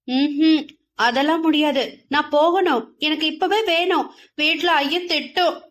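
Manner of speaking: put-on a girl fighting back tears; near tears. Shy village girl begs for her crab, near tears. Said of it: "அழும் நிலைக்கு வந்தாள்".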